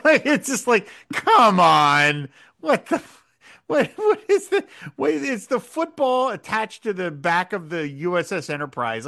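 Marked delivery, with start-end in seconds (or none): 1.1-9.1 exasperated disbelief. Retold or imitated. Exasperated retold reaction.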